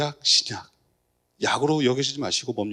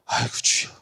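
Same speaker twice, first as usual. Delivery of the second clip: whispered sigh. Retold or imitated. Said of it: "이렇게 되는데".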